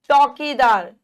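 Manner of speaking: चौकीदार with a loud wide चौ; चौकीदार sounded out loudly; open-mouthed vowel. Shown as a demonstration. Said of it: "बड़ा मुंह खुल रहा है".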